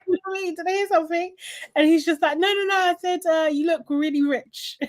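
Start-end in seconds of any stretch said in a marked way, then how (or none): 0.5-1.4 lightly imitated high challenge; playful mock confrontation; mock challenging. Repeats Zizi's challenge. 2.4-4.8 higher, hasty imitated denial; playful innocent cover-up; mock backtracking. Acting out David's hasty cover-up.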